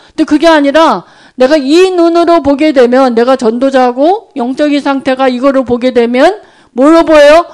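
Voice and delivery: normal talking voice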